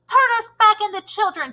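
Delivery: demanding. Acted. Todd demands the teacher change them back. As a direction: order her to undo it. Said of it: "Todd demanded".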